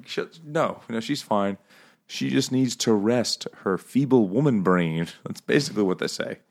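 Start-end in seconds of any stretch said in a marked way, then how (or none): 0.1-5.1 high mock patronizing. Family voiced mocking in story.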